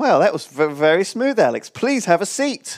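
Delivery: sexy, flirty posh woman voice, laid on thick. Role-playing a pickup scene with Alex, the host plays a sexy posh woman. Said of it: "Imagine I'm a sexy posh totty".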